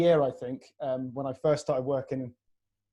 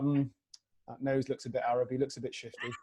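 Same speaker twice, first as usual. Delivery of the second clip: softer, wary murmur; mock suspicion; 2 semitones lower, 6 dB quieter than usual. Strangers judging his looks, mock suspicious. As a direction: imitate someone sizing him up with distrust. Imitates people eyeing him suspiciously.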